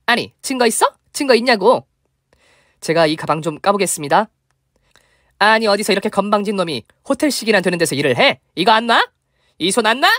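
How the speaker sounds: mock yelling. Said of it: "바락바락 소리를 지르더라고요".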